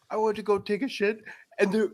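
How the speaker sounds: high, fast, giggly telling; laughing while talking. Retold or imitated. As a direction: talk through the giggles. Quoting man, laughing.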